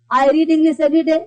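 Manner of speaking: slow model sentences; slow examples. Shown as a demonstration. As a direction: read the examples slowly for the class. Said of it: "सब क्या assertive है". (धीमे उदाहरण वाक्य)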